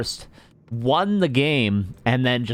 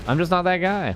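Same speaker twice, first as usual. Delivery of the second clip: lilting Scandinavian accent, pitched up; 9 semitones higher than usual. Shown as a demonstration. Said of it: "I'm not the best at accents".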